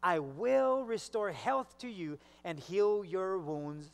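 "will" stretched and pushed in a slow reading; stress on will. Shown as a demonstration. Preacher repeating God's promise, slow stress on "will". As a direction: emphasise "will" as a certain promise. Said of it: "not might".

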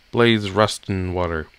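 words blurred by chewing gum. Real, not acted. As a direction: talk around a wad of gum. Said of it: "I'm chewing gum".

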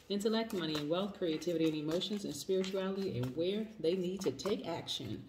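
quick, even prayer voice. Real, not acted. Reader asking God for a reading for Cancers, prayer tone. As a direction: pray it straight through to God. Prays aloud before the reading.

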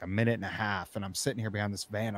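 usual speaking voice

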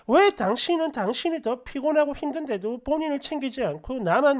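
retold fed-up scolding; irritated outburst. Wife scolds her exhausted husband for his consideration, irritated. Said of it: "짜증을 담아 한 소리".

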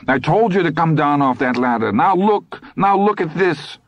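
high-pitched hysterical reproach; distraught wife's rising wail; babbling. A narrator's reading. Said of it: "Lydia babbled".

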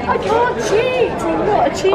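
mock innocence. Claiming innocence at cheat game.

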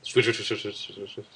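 hissing snake sounds. Retold or imitated. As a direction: hiss out each swish like a snake. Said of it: "I didn't mean to do a snake impression there".

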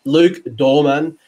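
slow, hammed-up bad English accent; a clumsy try at a Pommy accent, drawn out; mock English accent, badly done. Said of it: "that was my really bad Pommy accent".

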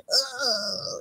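soft, drawn-out mock groan; audience groan. Imitating the vaccinated New York City audience, softly groaning. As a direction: groan quietly like an uneasy crowd. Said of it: "they're gonna be like a little like".

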